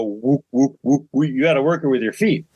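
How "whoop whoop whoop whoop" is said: rhythmic whoops mimicking a treadle; imitated pedal whoop. Showing how mom's sewing machine pedal went, imitated whooping. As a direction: pump out short repeated whoops like a pedal. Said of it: "it had a pedal. You go".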